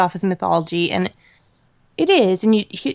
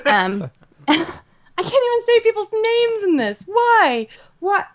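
exasperated wail; 13 semitones higher than usual. Real, not acted. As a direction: wail in helpless frustration at the words. Flustered over names she cannot pronounce.

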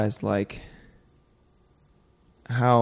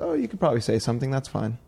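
quick, higher imitation of her offhand okay; casual go-ahead; 3 semitones higher, faster than usual. Woman okaying colleague's offer to step in, casually. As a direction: toss off her easy approval in a hurry. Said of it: "she just said it like that".

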